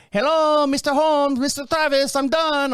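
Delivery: installer's cheery call. Retold or imitated. Installer calling out to the homeowner, cheery and high. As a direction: call up the hill like a chipper worker.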